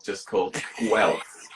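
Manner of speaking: "Guelph" said as one short syllable, gwelf. Shown as a demonstration. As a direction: clip "Guelph" into a single syllable. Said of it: "one syllable".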